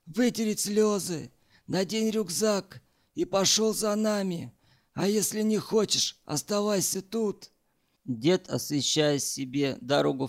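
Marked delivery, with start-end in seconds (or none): 0.0-7.5 high, sharp barked orders; barked commands. A narrator's reading. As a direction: bark the commands like a drill sergeant. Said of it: "рявкнул".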